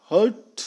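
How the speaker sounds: हर्ट with no R before the t; British, no R. Shown as a demonstration. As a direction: drop the R in हर्ट. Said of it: "British वाले आर का pronunciation नहीं करते".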